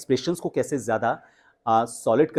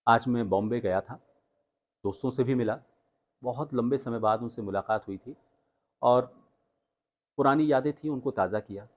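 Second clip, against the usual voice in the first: slow telling; 3 dB quieter than usual. Shown as a demonstration. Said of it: "अब slow की बारी".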